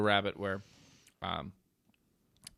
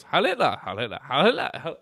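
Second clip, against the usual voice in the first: mock shouted salute; 5 semitones higher, 5 dB louder than usual. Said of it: "he goes".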